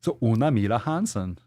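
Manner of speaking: lilting mock-Swedish introduction; artificial Swedish accent. Shown as a demonstration. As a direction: play a caricature Swede introducing herself. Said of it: "artificial Swedish accent or something".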